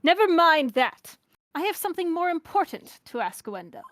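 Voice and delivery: formal mid-Atlantic interrogator; dignified transatlantic delivery; transatlantic accent. Acted. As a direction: brush it aside in a half-British accent. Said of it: "a mid-Atlantic, transatlantic kind of thing".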